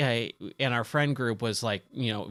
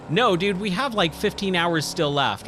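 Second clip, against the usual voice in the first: emphatic retold correction, pitch raised; mock exasperation; 5 semitones higher than usual. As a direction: play the friend setting him straight. Friend's acted exasperated answer.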